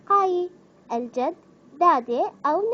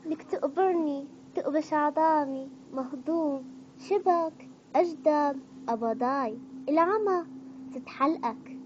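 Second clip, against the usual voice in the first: lightly Levantine-flavoured, slow and affectionate; a hint of Syrian accent; Syrian dialect. Shown as a demonstration. Vlogger trying Syrian expressions, light Syrian accent. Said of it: "وهسه راح نجي على اللهجة السورية".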